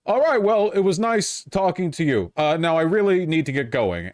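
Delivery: a brisk polite brush-off, voice lifted; polite exit. Pretend.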